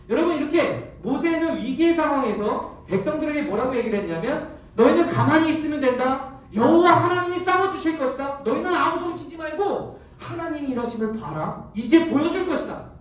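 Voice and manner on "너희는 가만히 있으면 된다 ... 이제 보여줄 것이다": confident command. Acted. Moses reassures the frightened people.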